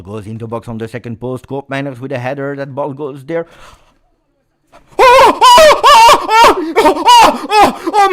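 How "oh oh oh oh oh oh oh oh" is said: screaming with laughter, very high and loud; ecstatic goal shout. Real, not acted. Fan commentator watching his team score, screaming with joy. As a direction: lose it completely as the goal goes in.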